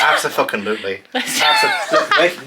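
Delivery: laughing. Real, not acted. Laughing claim of big bed.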